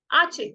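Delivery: आचे with no h sound at the start; silent h. Shown as a demonstration. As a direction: open straight on the vowel in आचे. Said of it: "हम यहाँ से पढ़ेंगे आचे". (आचे बिना ह की आवाज़ के)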